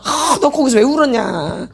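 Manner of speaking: exasperated self-blame, hammed up a little; mock self-reproach. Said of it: "나 자꾸 학대해봤자 답 안 나와".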